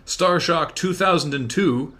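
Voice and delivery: slow, loud drawn-out name; excited call-out. Real, not acted. Excited call-out of new subscriber.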